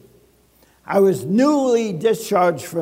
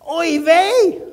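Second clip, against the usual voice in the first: comic dismay; 7 semitones higher than usual. Acted. Reacting to a debt letter.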